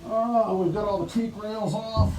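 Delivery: muffled through a dust mask. Real, not acted. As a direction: talk muffled behind a mask. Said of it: "sorry about me being muffled up".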